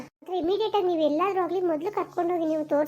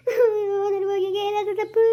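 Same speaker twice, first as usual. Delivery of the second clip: crying out; 2 semitones higher than usual. Acted. Mother crying to the doctor that something may happen to her son, tearful wail. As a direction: break into a wail of worry. Mother panics over son's condition.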